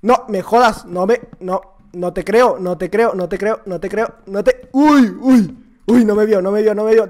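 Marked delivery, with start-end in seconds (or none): none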